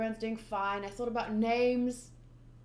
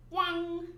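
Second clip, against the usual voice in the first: sound effect; 7 semitones higher than usual. Shown as a demonstration. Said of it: "more like a".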